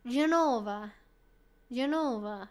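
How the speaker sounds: GENOVA with the NO drawn out; slow GENOVA, stressed je-NO-va; penultimate stress. Shown as a demonstration. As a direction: lean on the middle syllable of GENOVA. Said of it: "emphasis falls at the penultimate syllable".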